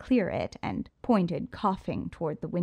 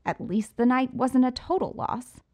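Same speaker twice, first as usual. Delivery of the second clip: smug Riddler; 5 semitones higher, 4 dB louder than usual. A narrator's reading. Riddler consoles with a box.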